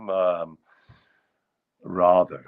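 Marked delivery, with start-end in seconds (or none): 1.8-2.4 "rather" with a broad AH, RAH-ther; upper-crusty "rather". Shown as a demonstration. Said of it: "very upper crusty".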